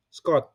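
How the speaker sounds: "Scott" the local Indonesian way, short, plain t; Indonesian pronunciation. Shown as a demonstration. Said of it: "Scott is pronounced locally as Indonesian pronunciation".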